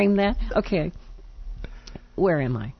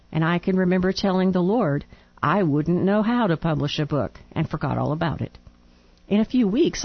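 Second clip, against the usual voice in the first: reading a letter aloud. Real, not acted.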